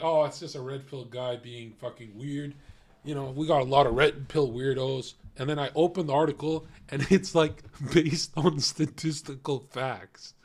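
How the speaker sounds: loud, fired-up rant; hyped-up shouting. Real, not acted.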